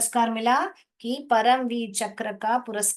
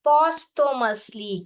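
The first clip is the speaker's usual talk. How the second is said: slowly, syllable by syllable, louder; 3 semitones higher, 4 dB louder, much slower than usual. Shown as a demonstration. Teacher dividing Posthumously into syllables for students. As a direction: break Posthumously into parts. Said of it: "ऐसे divide करके पढ़ेंगे".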